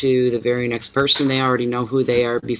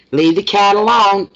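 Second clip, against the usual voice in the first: high, loud command to a pet; scolding call; 7 semitones higher, 7 dB louder than usual. Real, not acted. Owner calling the dog off the cat, loud high scolding.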